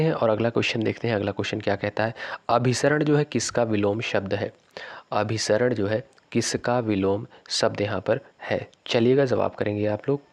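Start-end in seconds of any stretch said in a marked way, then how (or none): 2.5-4.5 whispers the question, no voice at all. Shown as a demonstration. Teacher reads quiz question twice. 5.1-8.7 slow, clear, fully voiced reread of the question; slow repeat. Shown as a demonstration. Teacher repeats quiz question slowly.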